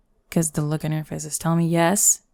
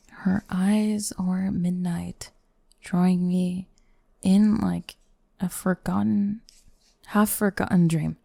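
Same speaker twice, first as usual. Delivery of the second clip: reading poem; slower than usual. Acted. Reads poem line aloud.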